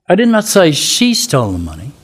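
"she" punched, then "stole the money" falls away; stress on SHE. Shown as a demonstration. Teacher showing how stress changes meaning, stressing "she". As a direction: hit the word "she" and drop after it. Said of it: "say the same words, different ways".

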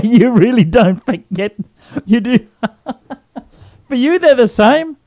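high, laughing incredulity; laughing disbelief. Real, not acted. Cohost laughing at the host mixing up baloney and salami, high pitched.

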